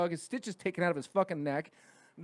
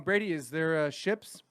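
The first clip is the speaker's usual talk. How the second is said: imitating teacher; 4 semitones higher than usual. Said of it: "my teacher would go".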